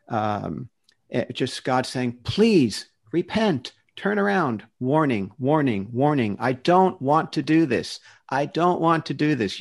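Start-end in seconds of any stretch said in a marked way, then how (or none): 2.2-9.6 acting out God's urgent, repeated warning; begging. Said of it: "you'll see God begging".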